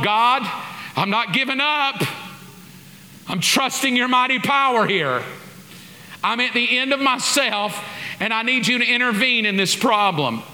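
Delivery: high, urgent plea to God; pleading prayer. Retold or imitated. At the church door, she pleads with God in a high voice. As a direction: beg God not to let this fail.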